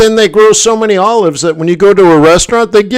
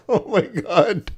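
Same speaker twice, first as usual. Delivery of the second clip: slow, much softer horrified murmur; stunned; 5 semitones higher, 10 dB quieter, slower than usual. Retold or imitated. Dashboard dies in the mountains, a soft stunned oh my God. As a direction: barely breathe it out in dread. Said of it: "And I'm like".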